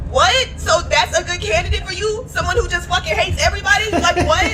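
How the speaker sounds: can't believe what she heard; incredulous what. Real, not acted. Disbelief at a brother's excuse.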